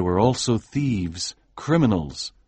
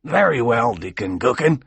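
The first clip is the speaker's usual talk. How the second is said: put-on old minister. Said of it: "replied the old minister".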